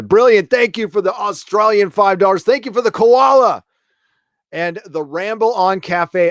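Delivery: excited shouted thank-you to a donor. Real, not acted. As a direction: burst out with delighted thanks. Thanking viewer for koala gift.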